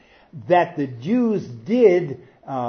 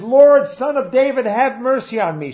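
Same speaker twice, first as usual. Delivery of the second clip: desperate plea; 8 semitones higher, 6 dB louder than usual. Acted. Woman's plea voiced in sermon.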